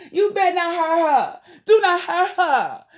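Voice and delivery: angry warning. Real, not acted. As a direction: warn him, half laughing, half furious. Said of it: "I'm so mad at him".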